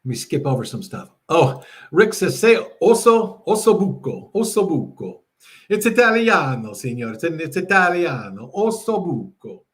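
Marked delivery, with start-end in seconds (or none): 2.4-5.2 put-on Italian accent. Host obliging a viewer's Italian request, hammed-up Italian accent. 5.7-9.6 hammed-up Italian accent. Host clowning for a viewer, mock Italian accent. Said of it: "a little bit of my Italian accent".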